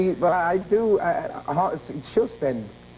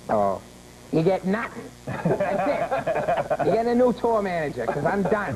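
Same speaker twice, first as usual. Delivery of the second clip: imitating Boston buddy. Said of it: "my buddy Dave is like".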